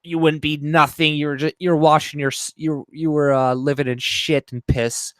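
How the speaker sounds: hammed-up tirade at a white person; mock furious rant. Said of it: "or something like that".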